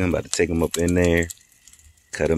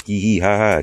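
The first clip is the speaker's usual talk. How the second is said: spoken hee-hee ha-ha; playful pretend laugh, slightly higher; mock laughter; 4 semitones higher than usual. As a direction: lightly imitate a chuckle in words. Imitates joking laughter.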